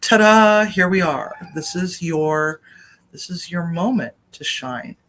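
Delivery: ta-da like a mock unveiling; the universe announcing. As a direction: present it with a showy flourish, then settle. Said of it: "maybe this is the universe saying".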